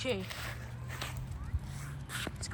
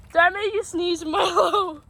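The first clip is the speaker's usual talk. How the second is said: laughing; slower than usual. Real, not acted. Laughing at dog's sneeze.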